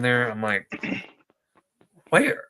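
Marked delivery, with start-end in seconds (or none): 2.1-2.4 mock surprise. Mock outrage at YouTube claim.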